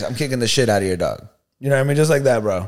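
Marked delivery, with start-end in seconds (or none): 0.0-1.3 quick, lower deadpan delivery; retold deadpan warning; straight-faced threat. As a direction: state the threat matter-of-factly. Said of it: "like, straight face".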